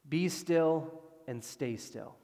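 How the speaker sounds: "be still and stay still" slow and deliberate; lasting command. Shown as a demonstration. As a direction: stretch out "be still", then "stay still". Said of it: "it's not just "be still" for a second".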